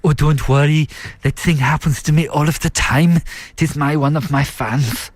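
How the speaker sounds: Herzog impression. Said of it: "I think he goes".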